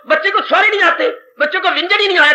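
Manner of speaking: high-pitched, acted complaint to a teacher; mock-indignant parent; quarrelling mother. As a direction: complain like a mother come to pick a fight. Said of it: "मैं तेरे साथ लड़ने आई हूं".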